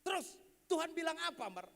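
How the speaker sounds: lightly voiced mother, pressing for an answer; questioning mother. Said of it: "dia datang ke mamanya". (ibu yang menanyai anaknya)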